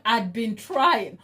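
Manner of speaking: slow, drawn-out mock repeat of trying; teasing slow-motion echo of her words; mock slow quote. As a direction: stretch "trying" out slowly, teasing. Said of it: "Can we unpack?".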